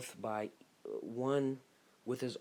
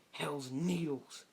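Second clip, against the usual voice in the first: jutsu call; 5 semitones higher, 5 dB louder, much slower than usual. Acted. Naming a jutsu attack.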